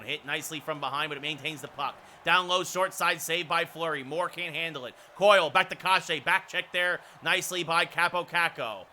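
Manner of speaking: running hockey call, measured and steady; play-by-play. Real, not acted. Announcer sees out the second period, steady play-by-play. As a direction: follow the puck, lifting slightly on the save.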